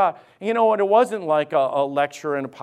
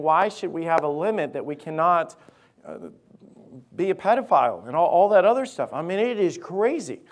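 urgent preaching; 3 semitones higher, 5 dB louder than usual. Real, not acted. Preaches at raised force.

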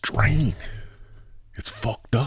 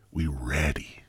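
low pledge; 5 semitones lower, 9 dB quieter than usual. Real, not acted. Repeated pledge, building in drawl.

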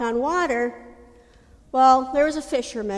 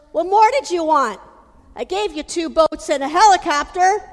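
exasperated reply; 3 semitones higher, 5 dB louder than usual. Acted. God answers the drowned man.

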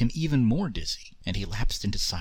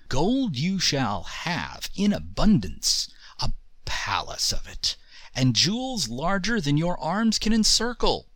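booming genie; 5 semitones higher than usual. Acted. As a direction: boom out the promise. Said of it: "roared the Jinn".

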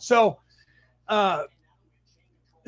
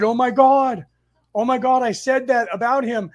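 higher, louder distressed outcry, imitated; retold tearful dismay; 4 semitones higher, 5 dB louder than usual. Roommate phones after the fatal crash, retold tearful dismay. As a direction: voice a distraught friend's wail without real sobbing. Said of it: "she's crying".

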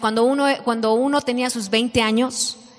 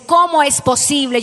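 mock anger; 2 semitones higher, 4 dB louder than usual. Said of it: "se enoja y dice".

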